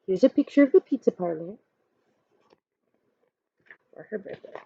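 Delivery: ordinary delivery, nothing marked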